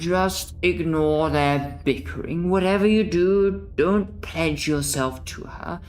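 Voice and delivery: urgent narration. Acted.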